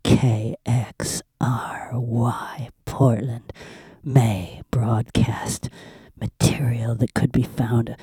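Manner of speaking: whispering. Acted. Whispered station legal notice.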